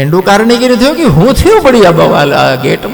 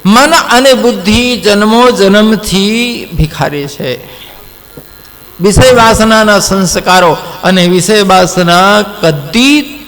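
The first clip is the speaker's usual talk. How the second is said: slow preaching; slower than usual. Acted. Slow sermon teaching.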